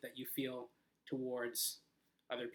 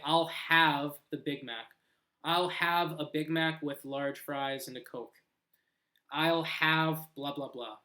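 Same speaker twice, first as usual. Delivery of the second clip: natural casual order. Shown as a demonstration. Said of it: "really natural way that you can order food".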